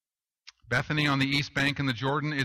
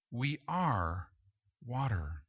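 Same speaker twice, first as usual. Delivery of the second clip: softer, lower, slow and solemn; quiet solemn close; hushed; 3 semitones lower, 7 dB quieter, slower than usual. Acted. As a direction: let it fall to near silence. Sermon climax, hushed.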